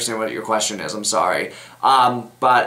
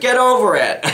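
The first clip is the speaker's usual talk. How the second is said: high-pitched, exasperated mock mom voice; imitating mother; 10 semitones higher, 4 dB louder than usual. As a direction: toss it out like a fed-up mother, half laughing. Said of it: "My mother used to always tell me".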